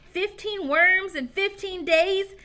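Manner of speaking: high slow yelled question. Acted. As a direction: yell it in disbelief. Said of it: "yelled Joe".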